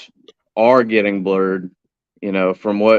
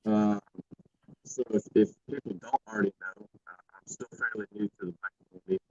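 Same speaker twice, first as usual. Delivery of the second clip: choppy, breaking-up audio; bad connection, words cutting out; 11 dB quieter, faster than usual. Real, not acted. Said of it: "still breaking up".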